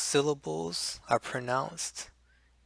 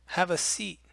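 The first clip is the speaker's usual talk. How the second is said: gentle invitation; 5 semitones higher than usual. Shown as a demonstration. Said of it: "easing into a conversation".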